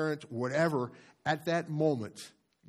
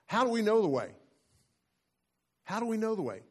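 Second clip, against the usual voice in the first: Thomas asking; 8 semitones higher, 3 dB louder, faster than usual. Retold or imitated.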